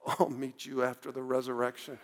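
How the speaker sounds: low, soft deadpan threat; quiet punchline. Retold or imitated. Jesus finally answering the heckler, low and soft. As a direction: deliver it hushed through clenched teeth.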